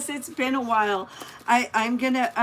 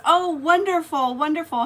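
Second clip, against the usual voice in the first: delighted praise; 6 semitones higher, 6 dB louder than usual. Real, not acted. Praising viewer's Christmas dogs.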